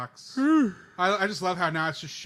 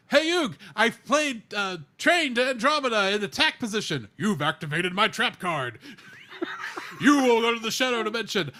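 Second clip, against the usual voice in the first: bad Brooklyn accent, pitched up; 6 semitones higher, 8 dB louder than usual. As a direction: ham up a weak Brooklyn tough guy. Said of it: "not doing a good Brooklyn accent".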